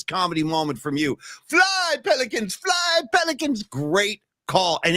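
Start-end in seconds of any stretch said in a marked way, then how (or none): 1.5-3.6 high, slow, shouted Pacino cry; Pacino impression. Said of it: "demand that sound".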